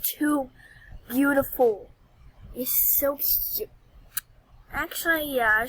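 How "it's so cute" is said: soft, unvoiced whisper. Real, not acted. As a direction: breathe it out, much softer. Whispering over a cute skirt.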